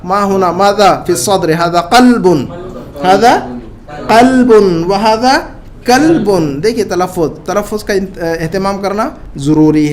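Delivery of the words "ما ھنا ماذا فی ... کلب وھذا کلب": slow, careful drill reading; slow classroom demonstration; slow model reading. Shown as a demonstration. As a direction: read slowly so every sound is clear. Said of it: "تو ہم اسے کہیں گے".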